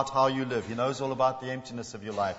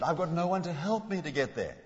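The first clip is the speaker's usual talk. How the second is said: a bit frustrated; 3 semitones higher, 3 dB quieter than usual. Shown as a demonstration. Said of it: "Was he a bit frustrated?".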